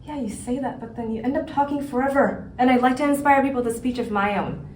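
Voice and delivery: quiet, fast squabble; soft-spoken quarrel; hushed bickering. Acted. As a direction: keep the argument down low. Speaks quietly throughout.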